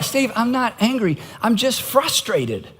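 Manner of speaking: soft, controlled insistence to the counselor; understated mock-patient denial; mild retold protest. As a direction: plead your case quietly, stretching the last phrase.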